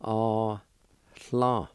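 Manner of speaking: syllables ah, hla said slowly one by one; Cherokee syllables. Shown as a demonstration. Teacher modeling the first part, ah, hla, carefully. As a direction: sound out ah, hla for the learner. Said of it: "First part is pronounced like this".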